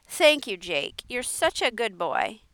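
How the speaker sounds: put-on bustle and fuss like a forgetful old aunt; Miss Edith, flustered aunt. Aunt thanks the boy.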